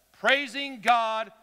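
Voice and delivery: loud, drawn-out declaration; loud praise. Shown as a demonstration. Preacher reads the verse to the congregation, loud praise. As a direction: proclaim it slowly at full voice. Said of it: "You don't even have to yell".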